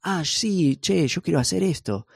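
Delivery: high, playful Argentine Spanish impression; imitating a friend from Argentina in his accent. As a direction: put on an Argentine accent for fun. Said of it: "como en su acento".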